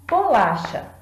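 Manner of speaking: Bolacha said syllable by syllable with a clap on each; clapped syllables. Shown as a demonstration. Teacher clapping Bolacha for the students in three beats. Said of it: "Bati as palmas três vezes".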